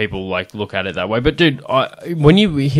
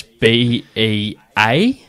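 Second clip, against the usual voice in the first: spelled out slowly; much slower than usual. Retold or imitated. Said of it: "and he writes".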